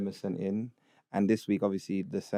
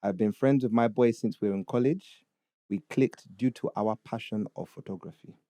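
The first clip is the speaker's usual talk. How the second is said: put-on Ugandan accent. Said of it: "read it in a Ugandan accent".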